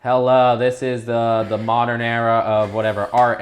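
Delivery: hammed-up stuffy art presentation; pompous classmates. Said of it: "everybody else was like".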